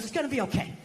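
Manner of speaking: gentle acted reassurance; imitated child reassurance. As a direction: soothe dad softly, as a little girl. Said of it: "she put a little hand on my shoulder".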